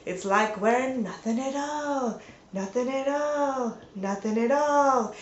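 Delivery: a light take on Flanders; lightly voiced Flanders, drifting off; Flanders impression. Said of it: "Flanders in his ski suit and he's like".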